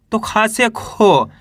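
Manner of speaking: खा से खी slowly, long ee in खी; slow demo. Shown as a demonstration. Teacher slowly showing students खा becoming खी. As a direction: spell it out for pupils. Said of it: "ओ की मात्रा है".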